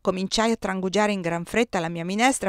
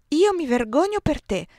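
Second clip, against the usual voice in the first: deep sorrow; 7 semitones higher than usual. A narrator's reading. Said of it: "un tono di profondo dolore".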